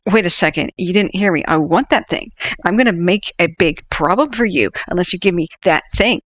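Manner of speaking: imitating a Karen threatening a clerk who refused; mock threat. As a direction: push hard, entitled and annoyed.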